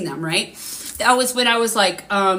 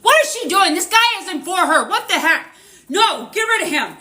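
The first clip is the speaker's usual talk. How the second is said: retold male spirit voice, raised and loud with a laugh; imitating a man's voice; 9 semitones higher, 3 dB louder than usual. Psychic acting out the spirit's voice telling her to dump him, amused retelling. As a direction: act out the spirit scolding her about the guy. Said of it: "this is a total man's voice".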